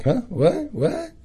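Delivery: high, softened mock-baffled questions; startled confusion. Listener thrown by the presenter's example, mock startled confusion. Retells shock at presenter saying sex.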